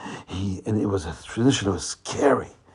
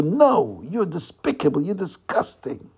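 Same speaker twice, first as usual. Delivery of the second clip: firm, higher-pitched rejection; strong rebuke; 5 semitones higher than usual. Acted. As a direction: reject the tempter outright. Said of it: "strongly and said to the Yetzer Hara".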